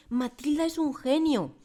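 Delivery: high, loud and slow insistence; exclaimed. Acted. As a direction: proclaim it with conviction. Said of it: "exclamó la señorita Honey".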